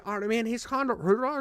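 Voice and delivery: imitating an unintelligible mumbler; garbled, slurred mock mumble; mock mumbling customer. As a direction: run the words into mumbled gibberish. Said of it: "he's mumbling, bro".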